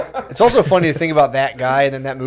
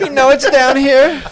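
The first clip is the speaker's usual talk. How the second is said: attempted Jewish accent; 11 semitones higher, 4 dB louder, slower than usual. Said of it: "Can't do a Jewish accent".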